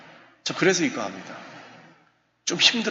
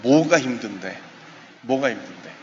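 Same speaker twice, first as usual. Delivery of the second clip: serious concern; 4 semitones lower than usual. Shown as a demonstration. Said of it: "심각하게 붙잡고요".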